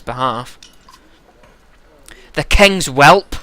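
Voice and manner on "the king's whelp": slow, loud Scottish brogue; gruff Glaswegian accent. Acted. Giant naming the arriving prince, slow gruff Glaswegian accent. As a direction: draw it out in rough Glaswegian. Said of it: "we'll give him a Glaswegian accent".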